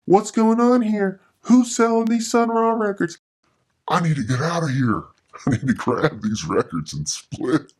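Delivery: high, fast, frantic inner voice; panicked inner thoughts. Retold or imitated. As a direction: replay the panic of finding the stash. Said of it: "I'm like".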